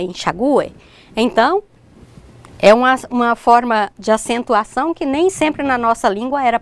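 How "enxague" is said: enxague with stressed U, en-sha-GU-e. Shown as a demonstration. Teacher citing regional speech, enxague stressed on U. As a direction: hit the GU in enxague. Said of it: "Em alguns lugares fala".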